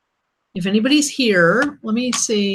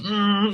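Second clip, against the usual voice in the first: mad mouth hum. Real, not acted. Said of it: "that means I'm mad".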